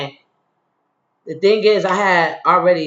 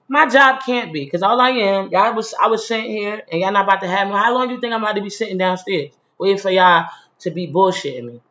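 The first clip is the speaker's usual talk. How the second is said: heated retort; 3 semitones higher than usual. Retold or imitated.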